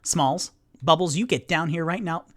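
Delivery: put-on firm, loud mother calling her kids down; a fed-up mom yelling up at her kid; scolding call. Mother scolding flying child.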